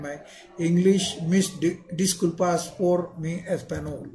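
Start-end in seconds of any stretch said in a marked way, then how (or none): 1.2-4.1 Indian-accented Spanish. Real, not acted. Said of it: "apologies for my Spanish pronunciation".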